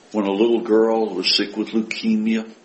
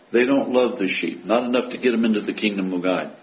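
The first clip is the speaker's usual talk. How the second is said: usual speaking voice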